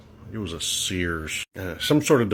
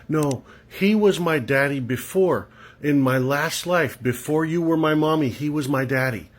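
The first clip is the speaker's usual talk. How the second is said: a hint of a little girl; 5 semitones higher than usual.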